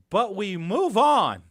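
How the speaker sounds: loud, slow, drawn-out sign-off; emphatic shouting. Real, not acted. Host cuts off his own rant, emphatic shouting. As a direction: belt it out slowly to close the rant. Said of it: "Sorry, I'm shouting".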